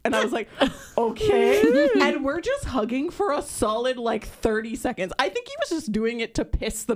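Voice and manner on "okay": high, loud, rising okay; giddy acceptance. Retold or imitated. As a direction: imitate a thrilled fan saying yes. Her giddy reply, retold.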